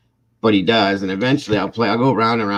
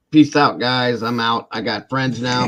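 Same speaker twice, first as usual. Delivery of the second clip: put-on higher, louder carefree teen; son brushing off parents; 5 semitones higher, 7 dB louder than usual. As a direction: toss it off like a kid running to friends. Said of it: "He was like".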